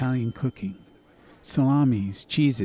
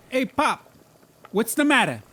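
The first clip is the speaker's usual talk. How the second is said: higher, worried call to his father; concerned son; 11 semitones higher than usual. Acted. Mazzy to his father in the kitchen, higher concerned call. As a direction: ask Pop what's wrong.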